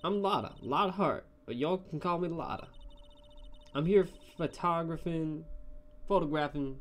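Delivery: sociable, hammed-up Southern voice; Southern photographer, friendly. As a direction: introduce yourself in a folksy Southern accent. Southern photographer introduces herself.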